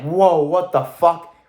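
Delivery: slow, drawn-out imitated whoa; acting out being thrown off by someone; mock stunned surprise. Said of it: "other things were just like".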